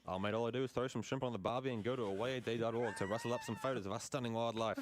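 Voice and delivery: put-on a lightly done Australian accent with broad vowels; a playful, so-so Aussie radio guest. A radio spot guest from Australia, lightly Australian accent. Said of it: "My Australian accent is not good".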